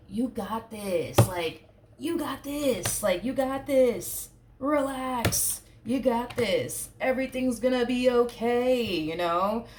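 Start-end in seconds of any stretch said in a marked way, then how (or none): 0.1-1.2 encouraging. Retold or imitated. Supportive friend voiced encouraging. 2.0-3.0 "You got this" said much higher and slow, drawn out; high encouraging cheer. Retold or imitated. Supportive friend voiced encouraging. 3.2-8.8 higher, slow and a bit louder, bright pep talk; high encouraging cheer. Retold or imitated. Supportive friend voiced encouraging.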